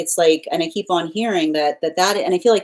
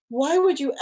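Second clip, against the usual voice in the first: higher, jaw-dropped disbelief; a guide too stunned to finish the question; gobsmacked guide; 9 semitones higher than usual. Retold or imitated. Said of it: "their jaw is dropped and being like".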